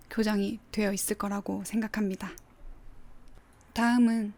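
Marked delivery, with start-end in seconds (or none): 0.1-2.3 whispering. Acted. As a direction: finish the thought in a whisper. Whispered aside.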